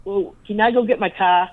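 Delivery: tired-out Massachusetts accent slipping out; lightly demonstrated Massachusetts accent. Shown as a demonstration. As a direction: let the Brockton, Massachusetts accent come through. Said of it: "They can hear it when I'm tired".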